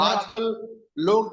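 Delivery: choppy, cutting-out call audio; glitchy robotic call. Real, not acted. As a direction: voice breaking up on a bad line. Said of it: "आपकी आवाज cut रही है". (कटती हुई आवाज़)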